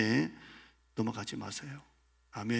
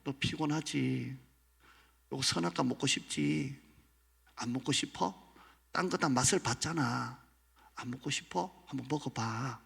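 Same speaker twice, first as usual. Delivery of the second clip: soft sly temptation, slowed at first; coaxing devil; 4 dB quieter than usual. Acted. Devil softly tempting Adam and Eve. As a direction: tempt them gently, like a serpent. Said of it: "이렇게 유혹하는 거예요".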